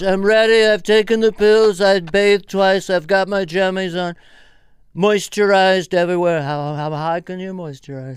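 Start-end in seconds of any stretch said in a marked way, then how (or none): 0.0-6.4 mock Melania. Wife announcing she is ready for bed, hammed up. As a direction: announce bedtime readiness, hammed up. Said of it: "fly on the wall in that marriage".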